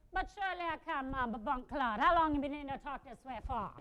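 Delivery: comic put-on Jamaican accent. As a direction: fake a Jamaican accent, badly and boldly. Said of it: "Can you talk with a Jamaican accent?".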